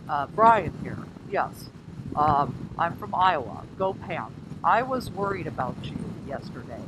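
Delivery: lightly put-on voice of a friend; Brian. Rider teasing her friend Brian, lightly imitating him. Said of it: "let me imitate Brian".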